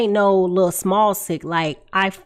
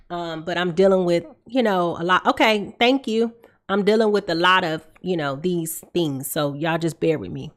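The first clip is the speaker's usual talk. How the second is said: stuffy blocked nose; congested; 3 semitones lower than usual. Real, not acted. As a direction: talk through a congested nose. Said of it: "I'm pretty sure I sound very congested".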